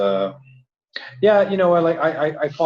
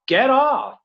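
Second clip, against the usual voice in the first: high, louder yell at a screen; retold yelling; 12 semitones higher, 6 dB louder than usual. Viewer retelling how they yelled at the TV, yelling. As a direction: yell it out, pitch jumping up. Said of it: "I was, like, yelling at the T V".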